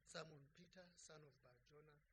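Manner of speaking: tender question. Acted. Jesus gently asking Peter if he loves him.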